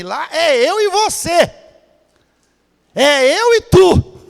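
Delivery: high, loud, slow, each word weighted; slow emphatic declaration. Acted. God to the believer in the desert, slow emphatic. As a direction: lean into eu e tu slowly.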